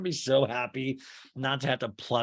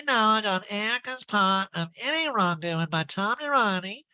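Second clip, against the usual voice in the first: high nasal impression, relishing every word; Erica Jane; 7 semitones higher than usual. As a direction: savor it in a put-on pinched high voice. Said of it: "She's really relishing this".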